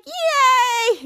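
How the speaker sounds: high, loud, drawn-out cheer; retold cheering. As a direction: celebrate with a long mock hooray. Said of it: "all the Danger Force were cheering".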